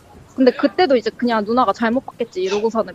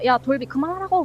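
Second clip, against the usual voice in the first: retold anger; 5 semitones higher, 3 dB quieter than usual. Sister scolding Dolbi from bathroom, mock angry. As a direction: imitate a cross sister without yelling. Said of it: "그래서 화내가지고".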